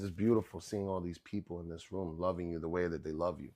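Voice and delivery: low, soft and hushed; tender confiding mother. Retold or imitated. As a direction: imitate a mother's heartfelt private word. Mother confides privately to son.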